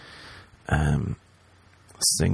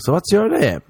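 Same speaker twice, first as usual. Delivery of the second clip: forced small talk; 10 semitones higher than usual. Retold or imitated. Hungover adult talking to kid.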